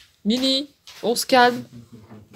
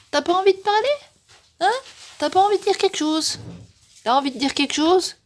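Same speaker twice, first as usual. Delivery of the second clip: high pet voice; 9 semitones higher, 4 dB louder than usual. Real, not acted. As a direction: coax the cat in a high, sing-song voice. Baby talk to the cat. (voix aiguë pour parler au chat)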